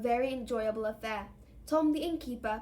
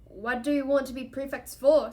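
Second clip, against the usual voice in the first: loud, appalled question; incredulous distaste; revolted; 2 semitones higher, 9 dB louder than usual. A narrator's reading. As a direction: recoil at the very idea. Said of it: "looking revolted at the very idea".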